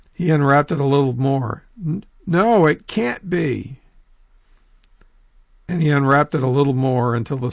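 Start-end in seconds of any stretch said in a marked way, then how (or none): 1.8-3.8 high stammer, then slow and falling; stammer, then sink into disbelief slowly; stunned disbelief. Acted. Possum unwrapping his tail, slow stunned disbelief.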